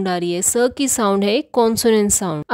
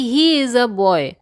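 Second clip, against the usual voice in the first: slow example sentence; much slower than usual. Shown as a demonstration. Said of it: "जैसे कि".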